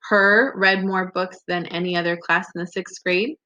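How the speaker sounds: Her punched and set apart, questioning rise at grade; doubtful stress on Her. Shown as a demonstration. Teacher rereading with answer choices, questioning stress on Her. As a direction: try Her out as an odd fit.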